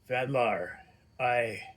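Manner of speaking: talking through a mouthful; mouth full. Acted. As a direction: chew through the words. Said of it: "through a mouthful of roasted meat".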